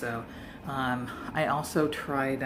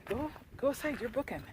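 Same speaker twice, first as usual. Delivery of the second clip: other hikers; 10 semitones higher, 3 dB quieter than usual. Retold or imitated. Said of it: "they're like".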